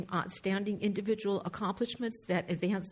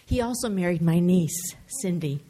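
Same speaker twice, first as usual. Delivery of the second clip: ordinary delivery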